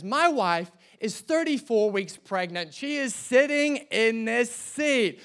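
firm retold confrontation, slowing and rising at the end; firm insistence. Husband to passenger in his seat, firm insistence. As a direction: stand your ground, weighting the final words.

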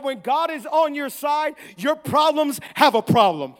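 preaching emphasis. Real, not acted. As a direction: make the point firmly to the congregation. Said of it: "I don't think you heard me".

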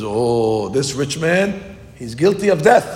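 slow, rising to a loud pronouncement; the king bringing down a death sentence; king's verdict. Acted. David condemning the rich man, slow and rising to loud.

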